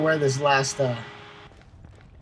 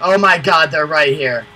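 alarmed shout; 10 dB louder than usual. Real, not acted. Enemies suddenly close.

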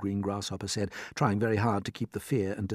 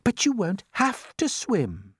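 put-on slow, pitched-up boy's voice; calm reassurance; 11 semitones higher, 4 dB louder, slower than usual. A narrator's reading. James tells the frightened creatures not to worry, calm. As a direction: reassure them without any panic. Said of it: "said James calmly".

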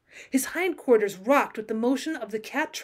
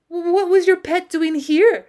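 higher, louder, slow question; last-stand challenge; 7 semitones higher, 7 dB louder, slower than usual. A narrator's reading. Wavering girl challenges the cowboy, making a last stand. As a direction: press the doubt slowly and firmly. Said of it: "she asked, making a last stand".

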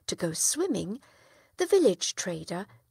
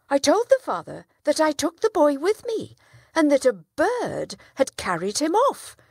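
louder, higher innocent answer; calm liar; 8 semitones higher, 7 dB louder than usual. Acted. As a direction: play it straight-faced to the judge. Villager answers the judge.

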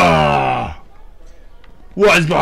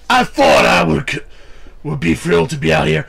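wrestling promo. Acted. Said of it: "gonna cut a promo".

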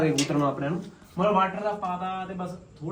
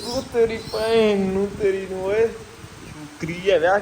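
high, slow, scolding aunty voice; 4 semitones higher than usual. Pretend. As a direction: scold it like an outraged auntie. Scolding the bird that pooped.

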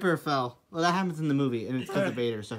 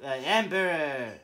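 deep Emperor voice; 6 semitones lower, 12 dB quieter than usual. Acted.

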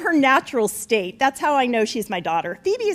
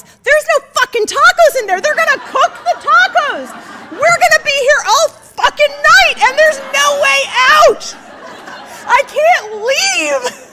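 loud, high, panicked ranting that builds to a shout; trapped-at-a-wedding meltdown, yelling; rising panic rant; 13 semitones higher, 9 dB louder than usual. Real, not acted. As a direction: spiral into comic despair at full volume. Realizing they must cook tacos.

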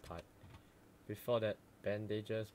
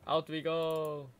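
cheery sing-song; 5 semitones higher, 6 dB louder, slower than usual. Acted. Cheerful exit into snow.

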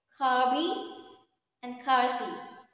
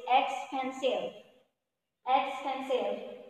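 slow model word; slower than usual. Shown as a demonstration.

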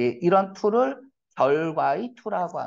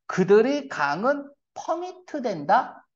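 higher-pitched sceptical question, rising at the end; doubtful question; 6 semitones higher than usual. Shown as a demonstration. Teacher testing a nonsensical literal translation on students, doubtful questioning. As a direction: read it as a reading that can't be right. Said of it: "말이 안 되죠".

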